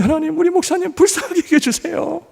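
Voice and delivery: high, pleading mock prayer for the pastor; pitying congregant's prayer. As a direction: pray for the poor pastor in a pitying voice. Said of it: "얼마나 불쌍해 보이면". (목사님을 불쌍히 여기는 높은 가짜 기도 목소리)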